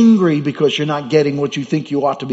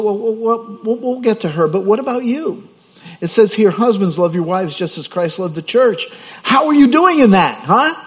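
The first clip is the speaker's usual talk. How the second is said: high, pointed counter-question, louder at the end; challenging pastor; 6 semitones higher, 4 dB louder than usual. Retold or imitated. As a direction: turn it back on him, pressing hard. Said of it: "I said".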